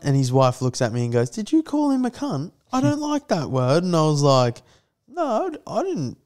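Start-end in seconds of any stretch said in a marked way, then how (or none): 1.3-3.8 high-pitched impression of a disapproving wife; mock disapproval in a high voice; affronted wife. Acting out the confronting wife. 5.1-6.2 defensive denial. Retold or imitated. Acting out denial to the wife.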